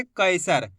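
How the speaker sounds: "कैसर" pressed out as "kai-sar"; said with force. Shown as a demonstration. Teacher telling learners to push, emphatic. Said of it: "उच्चारण करना है जोर लगा के".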